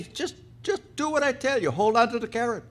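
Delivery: high-pitched, impatient order; exasperated insistence. Acted. Angel telling the doubting woman to obey, exasperatedly.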